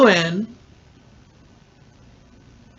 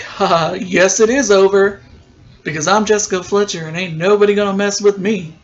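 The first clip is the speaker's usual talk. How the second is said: quick, louder mock-sassy defiance; sassy comeback; 3 dB louder than usual. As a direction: fire it back with attitude. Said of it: "looks at him like".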